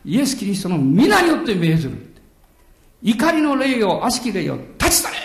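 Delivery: forceful retold command to a spirit; commanding exorcism. Preacher re-enacting his command to an evil spirit, forceful. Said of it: "彼女に向かっていきなりこう言いました".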